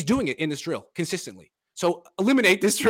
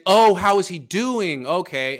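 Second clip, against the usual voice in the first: slow, louder mock echo of the question; snarky echo; 3 semitones higher, 5 dB louder, slower than usual. Coach mockingly echoing the host's question, snarky and slow. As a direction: throw the question back, sneering. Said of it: "he's very snarky about it".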